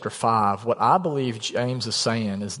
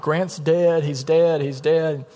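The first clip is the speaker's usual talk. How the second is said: higher-pitched retelling of a mother's cries; urgent but restrained imitation of screaming; retold frantic mother; 4 semitones higher, much slower than usual. Mother bursts into son's room about his brother, retold frantic cry. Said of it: "my mom is screaming. She's hollering, she's crying".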